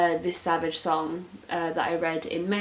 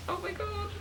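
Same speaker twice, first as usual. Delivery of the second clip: very high, soft squeak; a tiny thrilled squeak; squeaky delight; 7 dB quieter than usual. Real, not acted. Fan squeaking at the Demogorgon line. Fangirling over the blurb.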